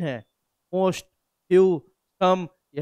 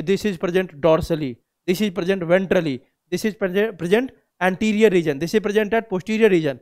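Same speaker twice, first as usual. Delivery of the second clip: textbook phrasing; much slower than usual. Shown as a demonstration. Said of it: "सब जगह यही लिखा होगा कि".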